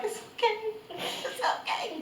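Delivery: high, soft, drawn-out soothing; mock reassurance. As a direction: coo it softly, half laughing. Retells comforting someone while lying atop.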